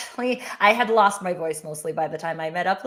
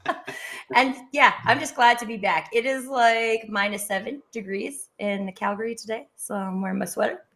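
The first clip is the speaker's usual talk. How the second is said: husky voice. Real, not acted. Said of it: "You sound, you sound a little husky".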